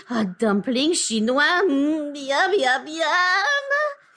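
drawn-out yummy savoring, rising at the end; hungry relish. Acted. Co-host daydreams about dumplings after hearing the dishes, hungry relish. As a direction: savor the thought of food, miam climbing. Craving food just described.

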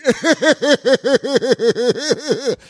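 high, loud burst of laughter; real laughter at the punchline. Real, not acted. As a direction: laugh hard at the memory. Laughing at dad's joke.

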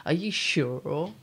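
slow, drawn-out mock American accent; a terrible American accent, stretched out; bad American accent. Friend laughing at her bad American accent. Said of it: "That's the worst accent ever".

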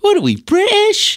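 a sniffy put-on British accent; mock British voice scoffing at scone fans. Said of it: "I'm like".

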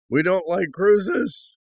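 mock shock at cruises; stunned slow echo of his wife; incredulous.

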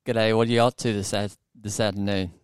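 American attempting an Australian accent, faltering at the end; shaky-footed amateur Australian accent; imitated Australian accent. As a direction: try Aussie and stumble on the last word. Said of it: "I'll see if I can do it".

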